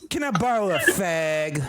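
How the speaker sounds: mock British accent. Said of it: "British accent".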